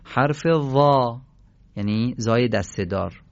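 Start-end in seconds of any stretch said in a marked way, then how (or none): 0.0-1.2 حرف «وا» کشیده و شمرده; slow out the letter name; letter name slowly. Shown as a demonstration.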